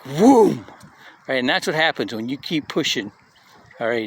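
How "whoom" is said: a bomb's boom as one punchy word; explosion whoom. Retold or imitated. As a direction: burst out the blast like a shockwave. Nuclear bomb pushing back.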